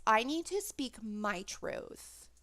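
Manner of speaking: slow, drawn-out mock of the mother's read. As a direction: drag each word out to sound self-pitying. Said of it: "she decides to read it herself like this".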